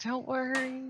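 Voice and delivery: lightly acted comforting voice; imitated reassurance. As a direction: imitate a friend calming you down. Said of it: "calming me down when I get too stressed".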